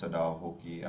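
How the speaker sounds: Sadao Hoki said as "suh-DAH HO-kee"; pronunciation demo. Shown as a demonstration. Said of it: "that's how it's pronounced".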